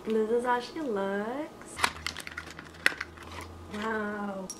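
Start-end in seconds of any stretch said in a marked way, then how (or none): 3.7-4.5 talking through hiccups; a hiccup in the word. Real, not acted. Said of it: "I have the hiccups".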